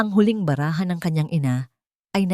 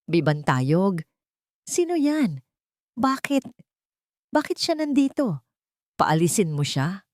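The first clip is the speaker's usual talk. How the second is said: breathless frail mother; 3 semitones higher than usual. A narrator's reading. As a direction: struggle for breath between words. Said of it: "na parang hirap na hirap huminga".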